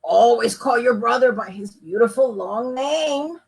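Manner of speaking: a hint of an old craftsman; old carpenter lecturing the boy; lightly voiced old man. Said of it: "said the old carpenter".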